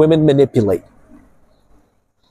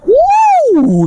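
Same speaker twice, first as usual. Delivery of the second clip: high, loud joyful whoop; a thrilled shout of joy; excited whoop; 4 dB louder than usual. Real, not acted. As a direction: cheer at the ocean view. Sees the ocean, cheers.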